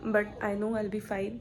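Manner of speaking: slow, deliberate I'll be fine; firm reassurance. Real, not acted. Vlogger reassuring viewers she'll recover, slow and deliberate. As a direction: draw it out slowly so they believe it.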